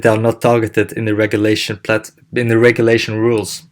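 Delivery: talking with food in mouth; mouth full. Real, not acted. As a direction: speak around a mouthful. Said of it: "I had something in my mouth".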